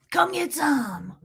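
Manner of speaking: slow, hammed-up tough-guy challenge; Steven Seagal. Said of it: "That was Steven Seagal".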